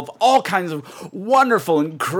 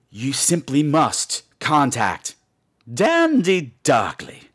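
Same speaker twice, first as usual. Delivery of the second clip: dramatic urging; 2 semitones lower, slower than usual. Retold or imitated. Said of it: "she said".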